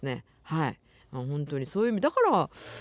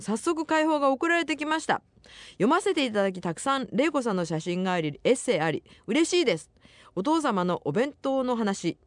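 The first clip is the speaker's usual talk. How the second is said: higher-pitched, lively radio letter reading; reading listener mail; 4 semitones higher than usual. Acted. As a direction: read the listener's message out brightly, pitched up. Reads listener's mail on air. (お便りを読み上げる高めの声)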